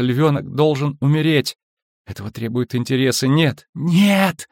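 fearful, rising to high cries; a terrified girl crying out; frightened child. Acted. Ciri's nightmare, terrified. (испуганный детский голос)

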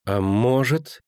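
high, sulky lead-in; sour questioning. A narrator's reading. Girl suspicious about the princess, sour. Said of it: "кисло спросила она".

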